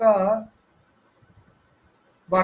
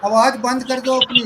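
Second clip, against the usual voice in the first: louder, insistent call to a student; raised classroom order to mute; firm instruction; 3 semitones higher, 4 dB louder, faster than usual. Real, not acted. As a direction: tell Sohail to mute, firmly. Teacher tells student to mute.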